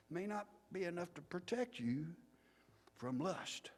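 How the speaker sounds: preacher starting contained, climbing high and loud; passionate crescendo. Retold or imitated. Preacher threatening boys with hell, swelling to passion. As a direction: build toward a damnation climax. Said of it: "he seems to be resisting his crescendos of passion".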